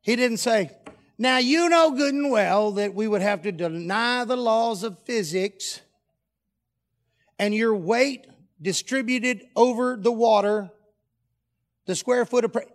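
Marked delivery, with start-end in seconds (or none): 1.2-12.7 slow, measured pseudo-scientific explanation; mock lecturing. Jesus supposedly explaining physics to Peter, mock lecturing. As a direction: lecture it out slowly, raised in pitch.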